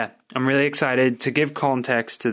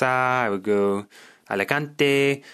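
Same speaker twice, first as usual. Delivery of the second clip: put-on Spanish accent; 3 semitones higher, slower than usual. Shown as a demonstration. Listing places he would go, Spanish accent. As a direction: lift the place name with a Spanish flourish. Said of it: "I'm sorry for the accent".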